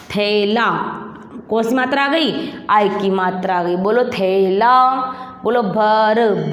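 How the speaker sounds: usual speaking voice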